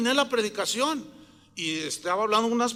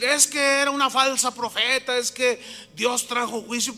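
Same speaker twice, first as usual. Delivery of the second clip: loud, raised-pitch quote of a blunder; mock outburst; 4 semitones higher, 4 dB louder than usual. Advising pastor what not to tell police, mock outburst. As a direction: exclaim it as the thing not to say.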